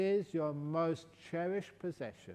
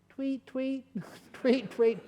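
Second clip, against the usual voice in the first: bad bird sounds; 11 semitones higher, 6 dB louder, slower than usual. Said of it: "I can't do bird sounds".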